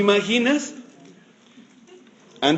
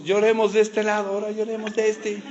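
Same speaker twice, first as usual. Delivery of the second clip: mock wailing crowd; 5 semitones higher, 3 dB quieter than usual. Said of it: "llorando todos".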